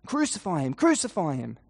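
understated crowd shout; half-voiced shouted chant; mock shouting. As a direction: imitate a crowd's chant without full volume. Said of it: "keep shouting louder and louder and louder".

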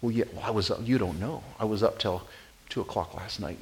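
soft, stumbling mock excuse; acted inner scramble, kept quiet; flustered thinking. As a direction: fumble for a comeback under the breath. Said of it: "you're thinking really fast".

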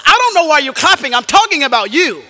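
loud, high preaching rebuke; imitating a convicting gospel preacher; Paul Washer. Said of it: "laying out the gospel heavy, convicting them".

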